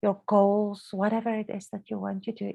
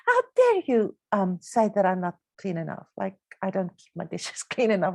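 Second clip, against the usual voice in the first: retold angry thought; 2 semitones lower than usual. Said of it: "but I would think".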